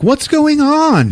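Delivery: high, slow, drawn-out bewilderment; high slow puzzled. Retold or imitated. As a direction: stretch it out, baffled and high. Wife walks in, puzzled.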